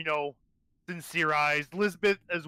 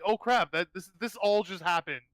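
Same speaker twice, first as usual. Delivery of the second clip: mild shock; 2 semitones higher than usual. Acted. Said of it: "a bit of shock will set in".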